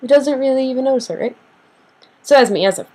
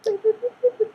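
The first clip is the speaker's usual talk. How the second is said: mock dramatic whimper; 13 semitones higher than usual. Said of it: "when you get those dramatic people too".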